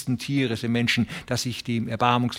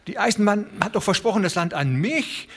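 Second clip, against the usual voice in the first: put-on high, hurried, stumbling old man; pleading old farmer, tripping over words; aufgeregter alter Mann; 8 semitones higher than usual. A narrator's reading. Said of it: "stammelte der alte Broderson". (hastig stockender alter Broderson)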